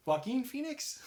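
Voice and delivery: "Joaquin Phoenix" high, with a questioning twang; added twang. Real, not acted. Trying the actor's name on a co-host, "Joaquin Phoenix" twanged high. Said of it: "Why do you have to add twang?".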